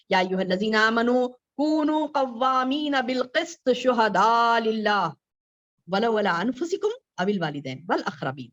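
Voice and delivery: melodic Quranic recitation. Acted.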